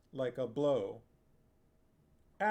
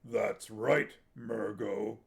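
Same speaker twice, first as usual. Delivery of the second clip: coldly; 2 semitones lower, 3 dB louder, slower than usual. A narrator's reading. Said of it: "Barak said coldly".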